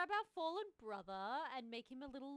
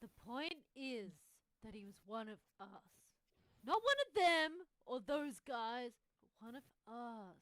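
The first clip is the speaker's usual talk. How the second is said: stoner. Acted. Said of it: "why do you sound stoned?".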